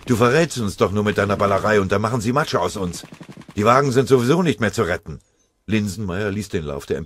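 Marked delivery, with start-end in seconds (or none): 0.1-5.2 angry scolding. Acted. Comrade scolding him during ambush.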